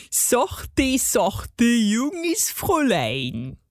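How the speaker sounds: slow, drawn-out dialect coaxing; crooning dwarf in character; purring garden gnome. A narrator's reading. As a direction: soothe her with oily gnome condescension. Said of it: "säuselte er".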